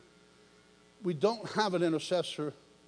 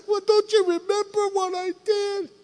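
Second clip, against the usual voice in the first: much higher, hurt disbelief; incredulous reproach; 13 semitones higher, 4 dB louder than usual. Retold or imitated. Jesus asking the crowd, high and incredulous. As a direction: ask it high and wounded.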